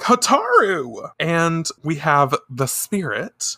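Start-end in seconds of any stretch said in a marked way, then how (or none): 0.0-1.1 high, slow call of a name. Retold or imitated. Chibiusa calling to her friend, high drawn-out cry. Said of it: "Chibiusa's like".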